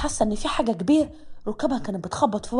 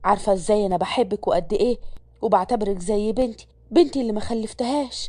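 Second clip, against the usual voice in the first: lower, motherly instructing voice; older mother; 3 semitones lower than usual. Acted. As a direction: warn the new girl kindly but firmly. Mother continues to Malak. (يسرية بتنصح ملك عن ابنها، بصوت أم أوطى وحنين)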